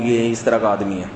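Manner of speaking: calm complaint. Retold or imitated. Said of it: "بہت آرام سے بات کر رہی تھی".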